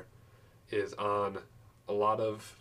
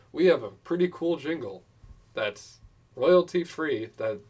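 customer service voice; 4 semitones higher, 6 dB louder than usual. Pretend. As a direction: sell it like a cheerful help desk. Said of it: "You're doing too much of a customer service voice".

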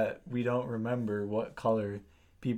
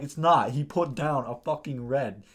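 louder, higher insistence; exasperated shout; 3 semitones higher, 6 dB louder than usual. Retold or imitated. Telling the confused kid he put down red, exasperated. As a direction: hammer home that it was red. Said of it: "It's like".

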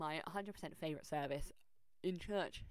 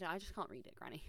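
whispered; 6 dB quieter, faster than usual. Retold or imitated. Retelling reply to her granny.

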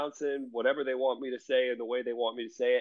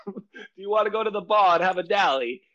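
higher, badly faked London accent; mock London accent; 4 semitones higher, faster than usual. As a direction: imitate a friend faking a London accent. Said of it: "trying to do this London accent".

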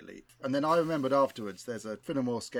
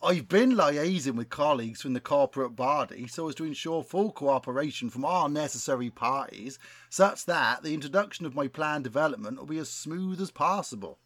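put-on West Country accent. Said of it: "best West Country accent".

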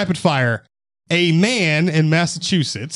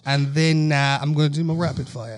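put-on British accent. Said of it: "in British accent".

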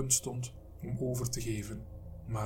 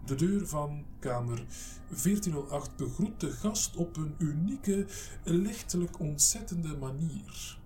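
dictating into a recorder; 4 semitones higher than usual. Acted. Mike dictates into his recorder.

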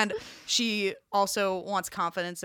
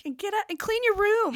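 high, loud imitation of yelling at a screen; mock yelling; 12 semitones higher, 4 dB louder than usual. Retelling her interview scene to a friend, mock yelling. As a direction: yell it high, playing her outburst. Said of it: "she's, like, yelling at the screen".

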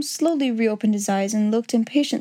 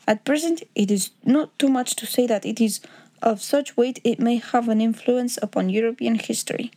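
lightly voiced formal Bohemian count; a hint of a Bohemian nobleman's accent. Count laying terms before Holmes, lightly accented and formal.

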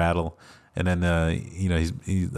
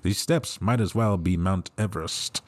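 lightly voiced old lady, slow; a hint of a fussy old aunt; Auntie Nelda voice; slower than usual. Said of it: "saying in the Auntie Nelda voice".

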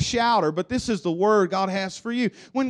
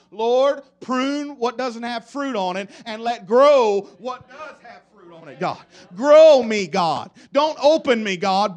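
fervent prayer; 7 dB louder than usual. Retold or imitated. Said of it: "You know what I'm asking God for now?".

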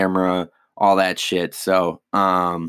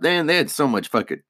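talking through hiccups; speaking with the hiccups; 2 semitones higher than usual. Real, not acted. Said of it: "I'm sorry, I got the hiccups".

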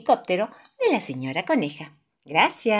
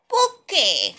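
George asking; 9 semitones higher, 4 dB louder than usual. A narrator's reading. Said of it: "pregunta George".

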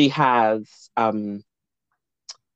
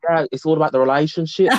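imitating Brummie friend; 3 semitones higher than usual. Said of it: "He was like".

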